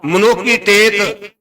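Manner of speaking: slow, measured verse delivery; scripture recitation. Acted. Preacher quoting Gurbani to the congregation, measured recitation. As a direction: recite the verse slowly, word by word. Quotes scripture in his sermon.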